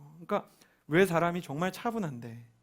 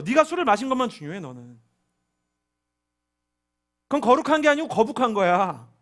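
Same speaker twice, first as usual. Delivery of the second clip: much higher, much louder scolding; angry rebuke; 7 semitones higher, 13 dB louder than usual. Retold or imitated. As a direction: scold like a furious teacher. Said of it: "주님이 너무 화가 났는데".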